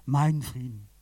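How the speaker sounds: slow, unhurried blessing of peace; measured words of reassurance; gentle blessing. Acted. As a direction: grant peace slowly and calmly. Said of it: "er haucht sie und sagt".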